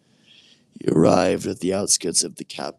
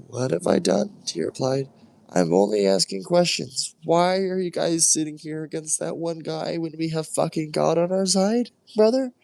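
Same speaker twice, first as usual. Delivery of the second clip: put-on high, indignant young voice; a hint of a defiant kid brother; protesting David. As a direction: push back at your brother.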